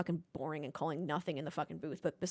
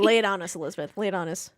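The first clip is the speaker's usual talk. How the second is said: eager urging; 2 semitones lower, 8 dB louder, faster than usual. Real, not acted. Urging cohost to speak.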